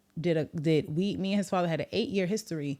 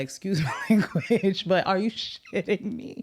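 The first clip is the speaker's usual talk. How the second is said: retold brother, laughing; 2 semitones higher, slower than usual. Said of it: "he was like".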